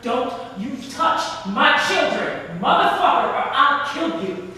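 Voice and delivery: angry threat. Acted. Mother threatening the father.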